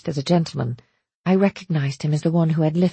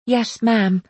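put-on small, higher child's croak; 5 semitones higher than usual. A narrator's reading. Orphan girl anxiously following instructions, croaking. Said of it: "I croaked".

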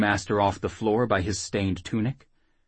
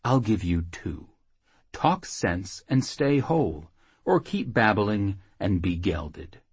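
menacing threat. Acted. Knife at his groin, threatening.

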